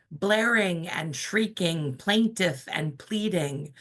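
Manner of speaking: slow, measured poetry reading; spoken-word poet reading to a crowd; poem reading. Acted. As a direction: let each image land slowly.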